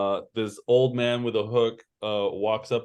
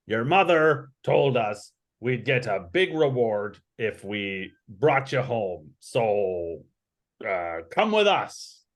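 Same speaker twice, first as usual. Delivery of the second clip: put-on old man with a hook, coaxing. Old man tells the runaway to come home, lightly coaxing. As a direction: coax them along as the old man. Game master voices old Arthas.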